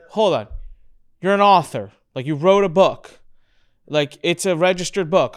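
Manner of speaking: mock amazement, pushed up; astonished. Cousin realising he wrote a book, loud and amazed.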